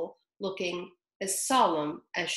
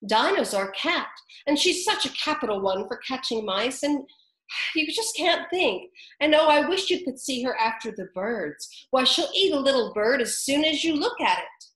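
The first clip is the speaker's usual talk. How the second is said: higher, louder eager gushing; eager Alice; 5 semitones higher, 4 dB louder than usual. A narrator's reading. Alice boasting of her cat to the birds, eager. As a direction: gush about her cat. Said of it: "Alice replied eagerly".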